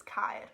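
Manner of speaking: Caer said as Welsh kaier, with a rising end. Shown as a demonstration. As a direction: say Caer the Welsh way, two beats. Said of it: "another word for castle".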